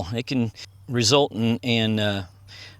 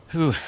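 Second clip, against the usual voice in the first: tired laughing whew; 4 semitones higher than usual. Real, not acted. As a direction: let out a winded sigh of a laugh. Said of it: "I'm still out of breath".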